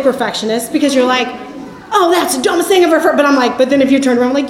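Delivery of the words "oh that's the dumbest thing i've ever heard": scornful. Retold or imitated. Imitating scornful perfectionist retort.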